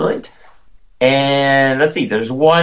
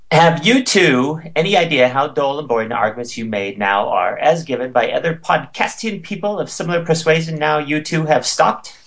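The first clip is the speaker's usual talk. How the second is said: all in one breath. Shown as a demonstration. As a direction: read fast without a breath. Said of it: "see if I can do this all in one breath".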